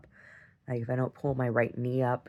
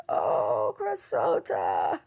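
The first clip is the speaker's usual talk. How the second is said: grandma's greeting; 5 semitones lower, much slower than usual. Retold or imitated. Voices grandma greeting her in dream.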